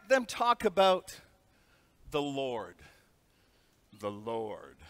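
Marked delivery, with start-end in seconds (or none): 2.1-4.8 much lower and softer, reverent; quietly awed repeat; hushed awe. Real, not acted. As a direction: breathe the words in wonder. Hushed awe at overheard faith talk.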